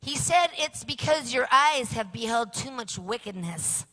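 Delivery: lightly voiced little boy delivering the answer; a hint of a child, matter-of-fact; child relaying. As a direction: report the angel's words like a small boy. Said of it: "He goes".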